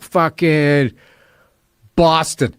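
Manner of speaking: put-on halting drunk answer with a long pause; mock wasted. Drunk driver telling police where he's from, groggy and halting. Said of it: "I was fucking wasted".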